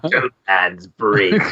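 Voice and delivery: lightly hammed-up ominous title; spooky legend name. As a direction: put on a mock-eerie storyteller voice. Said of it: "just talk that way".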